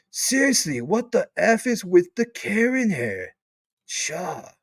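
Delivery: high, drawn-out put-on disbelief; hammed-up outrage in an altered voice; put-on mocking voice. Host reading a viewer's jab at Karen hair, put-on voice. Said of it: "This is not Blackwood's voice, but might as well".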